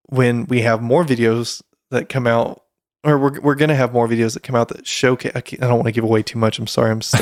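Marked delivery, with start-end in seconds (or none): 3.0-7.2 tripping over words in a rush; stuttering. Real, not acted. Almost gave away the videos, flustered stuttering. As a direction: stumble and restart, hurrying past a near slip.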